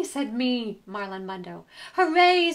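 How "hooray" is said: high, loud cheer; a bunny cheering the vote result. A narrator's reading. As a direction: shout hooray with joy.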